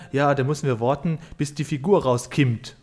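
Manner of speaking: mock Bavarian accent. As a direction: lightly imitate the Bavarian podcaster, say "rauskimmt" with an i. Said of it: "so unangenehm bayerisch".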